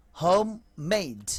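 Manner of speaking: "হোম মেড" as two distinct slow words; two separate words. Shown as a demonstration. Teacher splitting homemade for the class, careful and slow. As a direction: say "হোম মেড" slowly, word by word. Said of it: "এই হলো silent ই".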